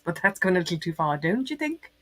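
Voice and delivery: prim Mary Poppins British voice; lightly prim British nanny accent; posh British accent. Pretend.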